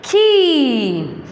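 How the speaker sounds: खी said with a long stretched ee; long ee demo. Shown as a demonstration. Teacher models the sound for children, drawn out. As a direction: stretch the ee in खी for the pupils. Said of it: "क्या बोलेंगे इसको?".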